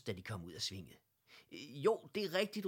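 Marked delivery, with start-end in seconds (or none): 1.5-2.7 high, loud confirming shout; shouted back. A narrator's reading. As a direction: yell the answer back. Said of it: "råbte Eddie tilbage". (højt råbt svar)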